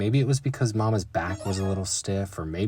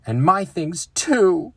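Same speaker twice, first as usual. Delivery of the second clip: mild cry out; 10 semitones higher, 6 dB louder, slower than usual. Acted. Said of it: "cried brother".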